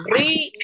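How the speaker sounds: RÍO split as RÍ, then O; split into syllables. Shown as a demonstration. Teacher showing pupils the hiatus, split into syllables. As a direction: break Río between the í and the o. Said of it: "se tienen que separar".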